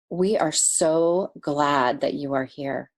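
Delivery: slow, heartfelt welcome; a gentle greeting meant just for her; sincere welcome. Retold or imitated. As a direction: say it slowly with full sincerity. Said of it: "he said it with the most sincerity".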